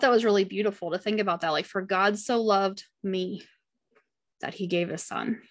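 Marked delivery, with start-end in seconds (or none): 1.7-5.4 near tears. Real, not acted. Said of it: "I'm gonna start crying now".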